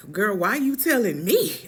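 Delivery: sassy retort to his mother. Retold or imitated. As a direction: push back with sass. Retold sassy reply to mom.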